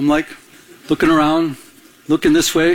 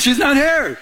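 much higher, light teasing reprise; teasing God; 7 semitones higher than usual. Retold or imitated. Preacher replaying God's words to the crowd, high and teasing. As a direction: lift it high and playful. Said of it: "It's like".

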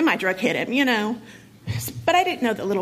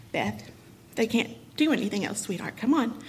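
softer, tender consoling voice; gentle comfort; 5 dB quieter than usual. Retold or imitated. Nurse mom softly telling daughter nothing more can be done. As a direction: break it to her gently, holding her hand.

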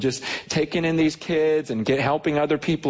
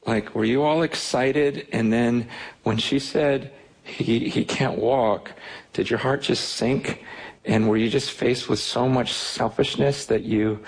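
sober confiding question; 3 semitones lower than usual. Retold or imitated. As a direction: retell a heavy-hearted question, pausing between phrases. Confiding in wife after long talk.

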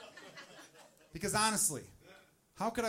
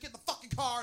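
high, frantic movie-wife order; mock yelling; 7 semitones higher, faster than usual. Movie wife to husband as water breaks, mock yelling. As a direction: yell it high without full volume. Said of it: "they're yelling at each other".

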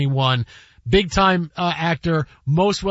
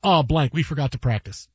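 John Goodman; 4 semitones lower than usual. Retold or imitated. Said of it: "John Goodman just goes".

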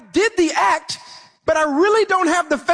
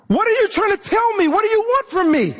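quick, higher exasperated questions at God; frustrated widow; 6 semitones higher, faster than usual. Retold or imitated. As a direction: fire the questions off fast and pleading. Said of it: "She was saying".

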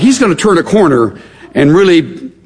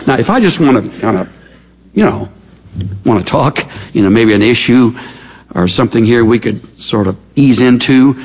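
low, casual, hesitant feeler; tentative easing-in; 5 semitones lower than usual. Acted. Friend easing into a touchy subject with Job, tentative. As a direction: broach it gingerly with little pauses. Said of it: "that's the, kind of the tone of it".

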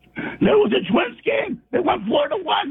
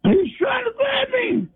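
hoarse sobbing shout; crying yell. Real, not acted. Caller crying out to the host to be left alone. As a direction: yell it through tears.

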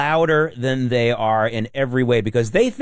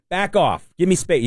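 half-hearted back off; 7 semitones higher than usual. Shown as a demonstration. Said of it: "I didn't say it hardly loud enough".

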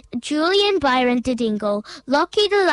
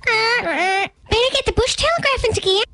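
high, quick cartoon animal; animal character; 9 semitones higher than usual. Local animal rallies the others to spread word, high and quick. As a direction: pipe up urgently in a high voice.

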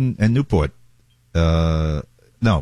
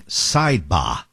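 put-on Boston accent; 2 semitones lower, much slower than usual. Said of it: "in his Boston accent".

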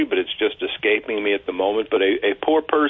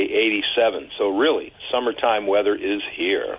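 measured radio forecast delivery; weather forecast read. Acted. Co-host reads listeners the five-day outlook, measured forecast read.

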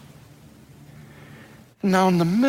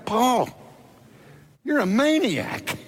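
maniac called out high; accusing cry; 6 semitones higher than usual. Retold or imitated. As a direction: fling maniac at him, pitched high. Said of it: "That's what Festus is saying".

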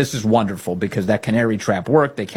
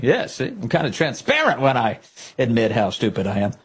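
smug show-off. Retold or imitated. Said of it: "he's like a show off".

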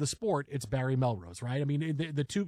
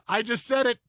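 laughing confession, pitched high; imitating someone cracking up at his own slip; Barry Melrose; 6 semitones higher, 4 dB louder than usual. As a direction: say it through a giddy laugh. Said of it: "just laughing, going".

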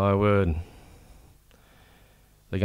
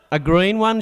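shouted; 10 semitones higher, 4 dB louder than usual. Acted. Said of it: "shouted Billy".

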